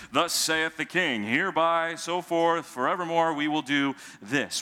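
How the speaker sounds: a hint of a pompous herald; mild mock-formal proclamation; mock royal decree. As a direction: lightly proclaim it like a king's edict. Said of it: "It sounds like some kind of royal decree".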